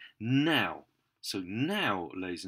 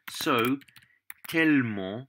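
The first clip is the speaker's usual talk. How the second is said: stressed model word; 3 semitones higher, 6 dB louder than usual. Shown as a demonstration. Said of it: "tellement is the word".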